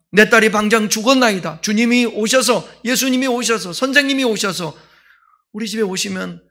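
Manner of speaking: urgent plea. Acted. Jairus begs Jesus for his dying daughter, urgent plea.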